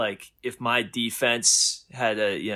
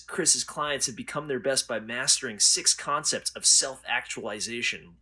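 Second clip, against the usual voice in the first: blurb reading. Shown as a demonstration. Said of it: "I can give you the synopsis".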